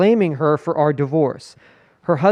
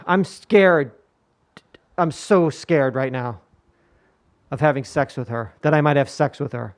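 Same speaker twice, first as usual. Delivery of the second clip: spooked and shaky. Retold or imitated. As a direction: play the scared ex-husband. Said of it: "he is fucking terrified".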